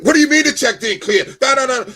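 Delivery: loud, high burst of disbelief; retold indignant protest. Customer told at the bank his check bounced, indignant. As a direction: protest loudly, pitch jumping way up.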